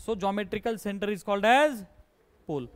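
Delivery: each word spaced out for copying; slow dictation. Shown as a demonstration. Teacher dictating a definition to the class, slow and even. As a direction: read it out slowly so students can write it down.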